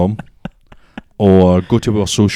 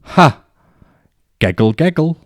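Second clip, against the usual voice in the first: high "ha", then the words giggle, giggle; spoken fake laugh; 7 semitones higher than usual. Imitating a girl who says giggle instead of laughing, mock giggly voice. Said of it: "take words away and put either actions or sounds in place ... she went ... instead of laughing".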